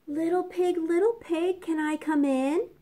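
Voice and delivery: high, sly wolf calling at the door; a sweet, wheedling wolf at the door. Acted. Wolf asks the pig to let him in, high and sly.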